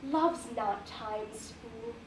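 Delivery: measured Shakespeare reading with pauses at line ends; formal, composed verse delivery; sonnet recitation. Acted. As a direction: recite the sonnet deliberately, phrase by phrase.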